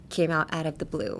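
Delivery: soft, breathy whispered repeat. Shown as a demonstration. Teacher repeating the idiom to learners in a whisper. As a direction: whisper the phrase to the viewers.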